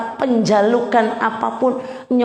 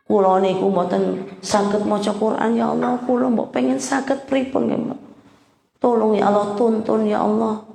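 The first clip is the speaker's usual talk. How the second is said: humble Javanese prayer. Shown as a demonstration. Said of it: "pakai bahasa Jawa boleh".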